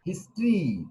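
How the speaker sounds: হিস্ট্রি said in two syllables, his-tree; demonstrated pronunciation. Shown as a demonstration. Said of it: "উচ্চারণটা কি বলেছি?".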